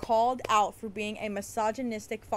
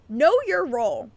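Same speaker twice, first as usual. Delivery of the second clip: loud, scornful repeat; mocking echo; 3 semitones higher, 8 dB louder than usual. Mocking the wrestler's tweet, loud scornful echo. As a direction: throw his words back at him loudly.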